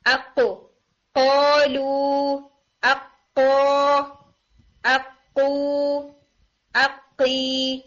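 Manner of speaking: "اقو، قولو، اقی" with a hard uvular q and long held vowels; correct qaf drill. Shown as a demonstration. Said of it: "this type of sound". ("اقو، اقی" میں قاف کی ہٹ، پھر لمبی آواز)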